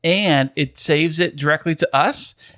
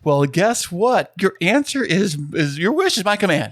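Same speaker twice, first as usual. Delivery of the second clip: infomercial voice; 4 semitones higher than usual. Pretend. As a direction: sell it like a late-night ad. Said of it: "you sound like an infomercial man right now".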